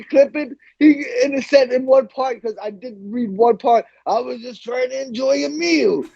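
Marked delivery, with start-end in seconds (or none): 4.1-6.1 higher, a light hint of the wrestler's voice; Macho Man voice. Macho Man telling the newspaper his side, lightly imitated. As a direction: lightly play the aggrieved wrestler. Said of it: "I can just see him saying that".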